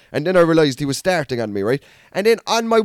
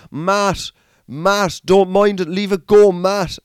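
friend pulling him back; 2 semitones higher, 3 dB louder, slower than usual. Retold or imitated. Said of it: "He was like".

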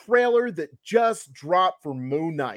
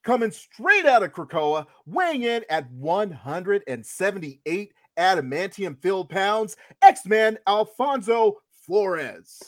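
grand entrance announcement. Acted. Introducing second co-host, ring style.

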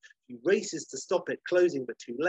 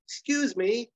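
polite call; 9 semitones higher than usual. Acted. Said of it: "she's like".

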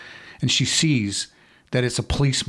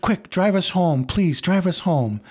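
higher, urgent begging; frightened plea; 5 semitones higher than usual. Acted. Terrified girlfriend begging Johnny to drive home, urgent and higher. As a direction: plead with him, scared now. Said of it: "Now she's really scared".

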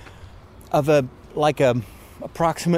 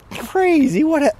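excited; 14 semitones higher, 4 dB louder than usual. Real, not acted. Delighted by first spring sign.

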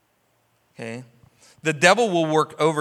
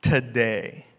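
gentle Jesus; 4 semitones lower, much slower than usual. Retold or imitated. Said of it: "Jesus looks at the guy and says".

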